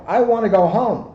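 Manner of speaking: little monster crying out; crying child. Acted. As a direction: wail for mommy like a lost little monster. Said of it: "he cried".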